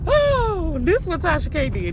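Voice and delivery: oh leaps up high and loud; excited. Real, not acted. Telling viewers about Tasha K, excited. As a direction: burst out with the news.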